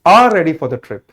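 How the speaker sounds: very slow, word by word; slow, deliberate reading of the correct answer; slow dictation. Shown as a demonstration. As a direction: dictate the answer sentence slowly. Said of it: "तो".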